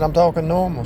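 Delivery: high mock insistence; husband insisting to his wife, high; imitating himself. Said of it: "And I said".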